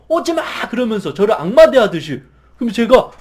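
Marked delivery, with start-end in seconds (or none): 0.1-0.4 put-on high, scared child's cry; a child begging you to stay away; frightened refusal. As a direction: yell it like a cornered, frightened kid. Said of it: "이렇게 저항을 하는 거예요".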